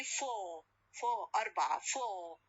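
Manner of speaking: FOUR ending on a long vowel, "faw"; no r sound. Shown as a demonstration. Teacher demonstrating the word alone, FOUR without r. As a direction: say FOUR with the final r silent. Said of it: "there is no re".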